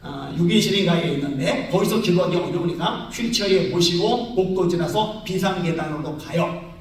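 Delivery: ordinary talk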